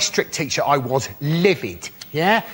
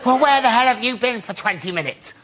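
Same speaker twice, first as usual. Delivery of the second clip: furious shout; 11 semitones higher than usual. Retold or imitated. Strict teacher yelling at the late pupil, high furious shout. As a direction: scream it at the pupil in outrage. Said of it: "I was furious".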